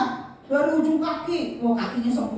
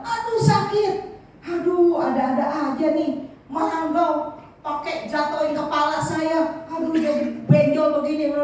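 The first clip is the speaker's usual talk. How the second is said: higher, whiny complaining ouch; grumbling in pain; 3 semitones higher than usual. Acted. King hit by a falling mango, grumbling in pain. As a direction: moan and grumble about the bump. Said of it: "Dia ngomel gitu ya".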